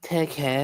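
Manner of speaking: "Takeshita" shortened to teh-KESH-ta; goofy-sounding pronunciation. Retold or imitated. Co-host echoes the correction as goofy, contracted pronunciation. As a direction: try out "Takeshita" with a swallowed I. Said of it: "that sounds so goofy saying that".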